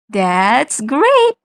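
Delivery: "great" with its A sound held long; stretched vowel. Shown as a demonstration. Student demoing sound stretching, drawn-out vowel. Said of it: "holds the A sound longer".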